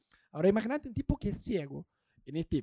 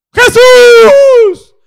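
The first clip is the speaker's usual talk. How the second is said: much higher, full-throated yell; shout; 25 dB louder than usual. Acted. Blind man cries out to Jesus, loud high shout. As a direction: call out over the whole crowd.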